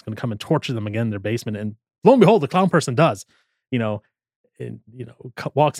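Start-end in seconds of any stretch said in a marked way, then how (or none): none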